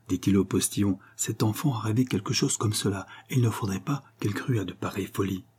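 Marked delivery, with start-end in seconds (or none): 1.2-5.5 softer, whispered warning; hushed voice. Acted. Father warning the coachman about the sleeping child, whispered. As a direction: drop to a whisper so the child won't hear. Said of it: "«Parle plus bas»".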